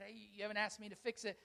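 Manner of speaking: soft, quick, hushed voice of God; small still voice. Retold or imitated. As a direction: say it like a gentle nudge from within.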